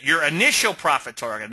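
"initial" leaned on as the key word; stress on initial. Shown as a demonstration. Trading teacher stressing "initial" to a student asking about targets. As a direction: hit "initial", let "profit target" stay light. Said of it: "I stress the word initial".

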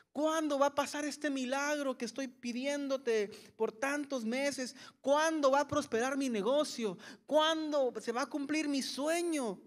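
mock worried pleading; anxious pleading. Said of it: "estamos preocupados".

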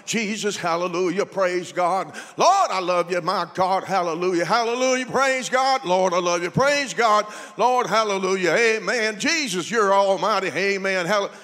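rapid-fire chain of praise phrases, no gaps; hammed-up, rhythmic hallelujah barrage; mock prayer-room praying. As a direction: imitate men praying nonstop in a circle. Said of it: "they were praying like this".

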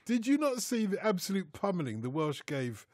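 put-on a light stab at a Welsh accent, rhetorical. Ribbing the pundit about Wales in a mild Welsh accent. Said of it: "You, you do the accent so well".

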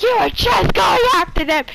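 loud, high re-enacted protest; mock outraged yell. Re-enacts own outburst at killer.

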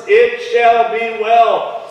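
each word laid down slowly; slow, deliberate. Shown as a demonstration. Preacher slowly stressing the four words. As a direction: draw out every word of the promise. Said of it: "don't forget this, these four words".

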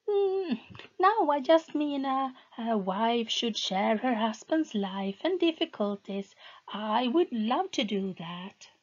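high, hesitant pleading voice; lightly voiced anxious wife; timid wife. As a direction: ask carefully, afraid to upset him.

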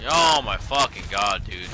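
raging gamer. Real, not acted. Gamer exasperated at opponent.

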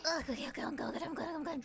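recovering from a wasabi burn; catching breath after wasabi; after eating wasabi. Real, not acted. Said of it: "too much wasabi".

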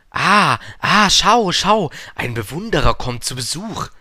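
high, loud, delighted hail; calling from afar. A narrator's reading. Vain man spots an admirer coming, calls out high and loud. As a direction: crow it out to an approaching admirer. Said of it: "rief der Eitle von weitem".

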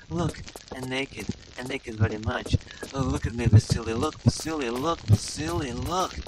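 hammed-up seductive British voice; sultry Lara Croft parody. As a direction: purr it like a vamping game heroine.

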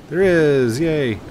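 loud, high delighted cheer; thrilled to find the party; excited cheer. Real, not acted. Gamer spotting the beach party, excited cheer.

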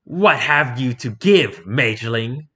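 slow, otherworldly voice with a different timbre; a huge ancient being asking slowly; goddess's question. A narrator's reading. Tiamat questioning the mage, slow and otherworldly. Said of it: "Tiamat asked".

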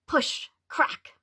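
playful whispered effect; whispered sound effect. A narrator's reading. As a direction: breathe out the hatching noises. Hatching sounds voiced.

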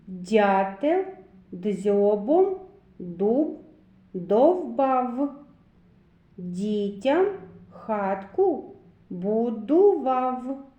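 slow, deliberate reading with pauses between words; verse recitation. Shown as a demonstration. Teacher recites a rhyme for children to count sounds, slow and emphatic. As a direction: set out each word separately so children hear its sounds. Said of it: "полічіть, скільки звуків Д у віршику".

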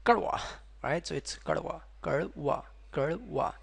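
kadwa with a retroflex flapped d; kadwa, curled tongue between r and d; correct kadwa. Shown as a demonstration. Teacher models kadwa, flapped retroflex. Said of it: "Don't pronounce like kadva".

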